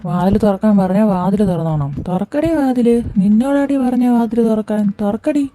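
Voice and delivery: put-on drunken yell. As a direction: bark at her to open the door. Drunk husband shouting at door.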